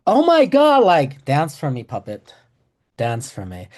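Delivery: "dance for me, puppet" with mock glee; gleeful taunting. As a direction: crow over the poor dentist. Gloating about dentist's reaction.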